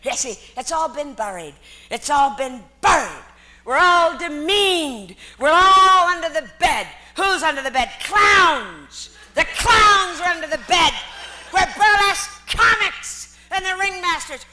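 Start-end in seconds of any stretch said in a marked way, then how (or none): 3.6-14.4 loud, emphatic declaiming; rising to a laughing shout; passionate rant. Real, not acted. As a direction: drive it home with force. Passionate rant about clowns.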